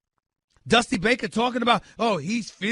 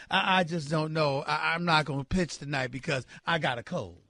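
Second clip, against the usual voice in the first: mock timid excuse; 4 semitones lower than usual. Host imitates pitcher dodging a must-win game, timid stammer. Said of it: "going like this".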